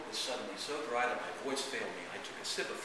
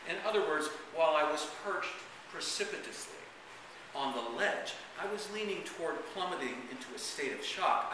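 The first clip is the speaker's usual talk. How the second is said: dramatic first-person reading; story narration. Acted. Author reads the grandpa memoir to an audience, dramatic narration. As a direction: read it as a theatrical, wry memoir.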